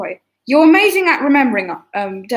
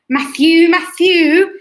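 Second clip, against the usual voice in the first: calling out; 3 semitones higher, 6 dB louder, much slower than usual. Real, not acted. Calling out a viewer's name.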